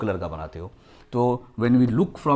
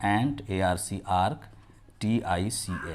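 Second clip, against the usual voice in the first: spelling out; 2 semitones lower, 4 dB quieter, slower than usual. Shown as a demonstration. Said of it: "spelling देखिए".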